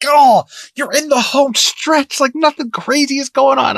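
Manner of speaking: high, slow reassured musing; relieved inner voice. Retold or imitated. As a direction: sigh it out thinking all is fine. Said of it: "I was just like".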